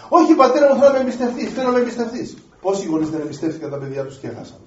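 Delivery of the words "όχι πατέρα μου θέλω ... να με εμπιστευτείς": insistent son. Acted.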